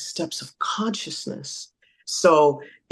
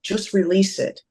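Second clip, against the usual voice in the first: higher-pitched mock coaxing, lightly voiced; playful repeated urging, a little higher; insistent advisor; 4 semitones higher than usual. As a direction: imitate someone nagging in another's ear. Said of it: "there's a person in their ear like".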